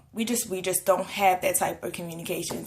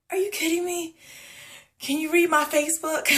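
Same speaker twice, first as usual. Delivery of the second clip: incredulous retort; 8 semitones higher than usual. Retold or imitated. Retorting to nosy people.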